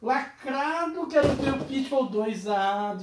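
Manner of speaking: mimicking demanding fans. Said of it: "Aí a galera falou assim".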